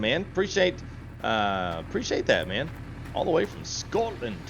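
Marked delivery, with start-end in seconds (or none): 3.1-4.4 put-on high-pitched stab at a Scottish accent. Streamer welcomes viewer from Scotland in mock Scottish accent. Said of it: "if that was a Scottish accent".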